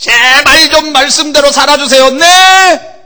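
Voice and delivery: high, loud, pleading preacher voice.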